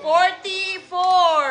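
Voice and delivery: slow, stretched number call; announcer's lingering call; bingo caller. Real, not acted. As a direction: draw the number out for the players.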